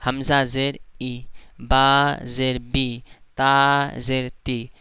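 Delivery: slow, even, unjerked vowel; correct smooth recitation. Shown as a demonstration. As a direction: read it smooth, no jolt on the vowel. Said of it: "जैसे".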